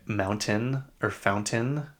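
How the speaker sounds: "mountain" and "fountain" with a crisp T; pronounced T's. Shown as a demonstration. Showing how Utah people sound pretentious, pronounced T's. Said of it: "pronounce their T's".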